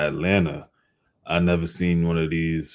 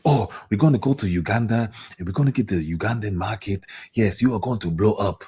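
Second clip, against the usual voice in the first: mocking voice; 3 semitones higher, faster than usual. Mocking a hopeful label pitch.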